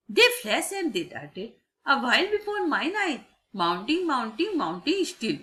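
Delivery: measured verse reading in short phrases; singsong classroom recital; poem recitation. Acted. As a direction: recite with a lilt on each phrase. Reads fourth stanza aloud.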